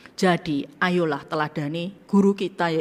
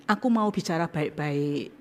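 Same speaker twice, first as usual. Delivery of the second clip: humble apology; 3 dB quieter than usual. Pretend. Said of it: "ngomongnya gini".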